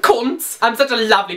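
one word in thick Scouse; hammed-up Scouser; exaggerated Scouse accent. Shown as a demonstration. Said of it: "I can try and do Scouser".

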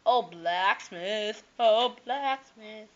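slow, drawn-out calling out; sing-song calling. Pretend. Player searching the village, calling for the blacksmith in slow sing-song. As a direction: coax the blacksmith out of hiding.

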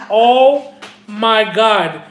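slow, drawn-out dismay; mortified. Retold or imitated. Retelling embarrassment at the post office, slow mortified groan. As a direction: stretch each word in dread. Own mortified reaction retold.

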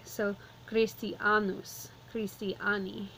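Christianus with a stressed long A, slowly. Shown as a demonstration. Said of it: "emphasis is going on the long A".

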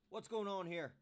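loud, stern demand from the sheriff; demanding shout. A narrator's reading. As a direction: call it out sharply across the clearing. Sheriff arrives and demands answers.

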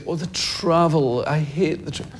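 imitated showbiz whinge; whinging celebrity. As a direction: moan it like a weary star in an interview. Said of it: "being interviewed and they say".

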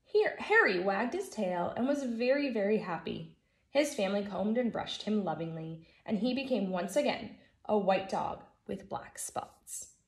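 put-on lively storybook reading for kids; gentle read-aloud for a class; reading to children. A narrator's reading. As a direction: read it like story time for first graders. Teacher reads picture book aloud.

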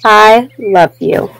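slow and tender. Acted. Reader closing the story to children, slow and tender. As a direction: let it linger lovingly.

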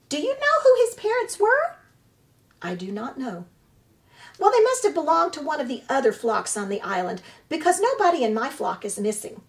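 high, loud squawking goose voice; squawking old goose. Acted. Old goose squawks at the robot about the orphaned hatchling, high and loud. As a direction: scold like an indignant old goose.

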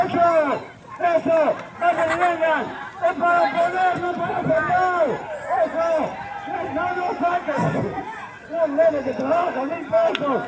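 calling out. Real, not acted. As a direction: call out over the crowd. Shouting at kids around hat.

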